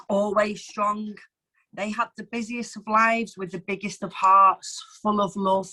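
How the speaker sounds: measured, heartfelt poem recital; reading an anniversary poem to the open mic, tender and measured. Acted. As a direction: read it like a gift to your parents. Reads her poem aloud.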